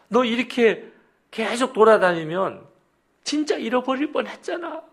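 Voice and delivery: very high, choked-up father's reproach; high-pitched, upset wail of reproach; tearful scolding. Retold or imitated. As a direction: act a parent scolding on the verge of tears. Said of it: "진짜 막 울먹거리면서".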